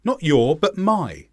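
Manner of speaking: "your" and "my" both punched, set against each other; contrastive stress. Shown as a demonstration. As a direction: stress "your", then counter it with "my". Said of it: "my brings a contrast to your".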